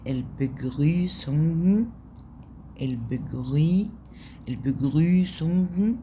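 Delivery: slow, careful "البجريسونج" with a guttural r; German demo. Shown as a demonstration. Teacher modelling greeting word for class, slow and careful. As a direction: spell out "البجريسونج" syllable by syllable. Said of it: "يبقى عندي في التحيات".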